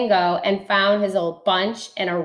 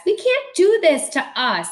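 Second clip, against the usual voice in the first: protesting guests; 5 semitones higher than usual. Acted.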